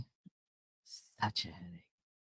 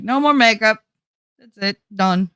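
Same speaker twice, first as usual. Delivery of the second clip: emphatic declaration; 7 semitones higher, 5 dB louder than usual. Retold or imitated. Declaring she quits makeup.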